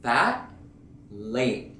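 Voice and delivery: Fat and late ending in a held stop; unreleased final T; stop T demo. Shown as a demonstration. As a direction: cut "Fat" and "late" off with the tongue up. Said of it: "like a stop almost in the air".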